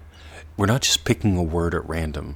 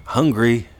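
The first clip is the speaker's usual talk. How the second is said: hungry punched louder and higher; emphatic hungry; 5 semitones higher, 8 dB louder than usual. Shown as a demonstration. Teacher contrasting words, punching hungry louder. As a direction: push hungry out hard. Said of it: "Compared to empty".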